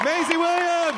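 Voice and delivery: big announcer call; shouting name. Real, not acted. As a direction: roar her name to the crowd. Calling out guest name.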